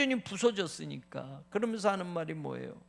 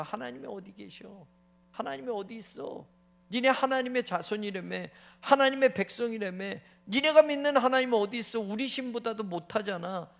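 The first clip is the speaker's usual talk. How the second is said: mocking taunts; 3 semitones higher than usual. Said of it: "라는 말을 종일 듣는 거예요".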